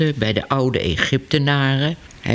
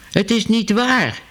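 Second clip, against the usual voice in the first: higher, denying cry; Ellemeet calling out; 7 semitones higher than usual. A narrator's reading. Ellemeet denies to the hall, raised and protesting. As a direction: protest it, voice pitched up. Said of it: "riep hij".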